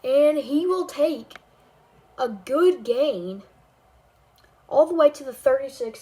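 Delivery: excited broadcaster call. Acted. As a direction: hype up the run. Calling a big gain.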